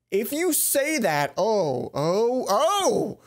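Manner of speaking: loud, rising real exclamations; excited. Real, not acted. Player bracing for Mai's confession, excited. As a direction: build up in giddy disbelief.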